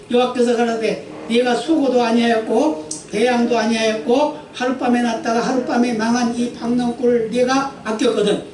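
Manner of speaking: 또박또박 경건하게 읽는 성경 낭독; 회중 앞에서 말씀을 엄숙히 읽어 주듯. Acted. Reads scripture aloud. (설교자가 회중에게 본문을 읽어 주는 경건한 낭독)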